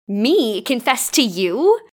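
slow scoffing disbelief. Acted. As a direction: scoff at the very idea, drawn out. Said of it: "She scoffed".

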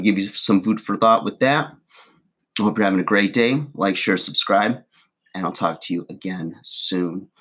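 chewing gum while talking; mouth full of gum. Real, not acted. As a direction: talk round a wad of gum. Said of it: "so much gum in my mouth".

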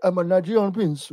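lightly put-on Nigerian accent; a touch of mock Nigerian prince; imitated Nigerian accent. Co-host echoing the wrestler's fake accent, light mock Nigerian accent. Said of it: "You're putting on an accent".

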